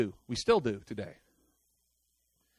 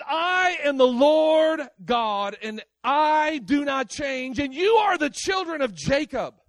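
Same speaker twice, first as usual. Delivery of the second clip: God's proclamation; 6 semitones higher than usual. Retold or imitated. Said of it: "And he says".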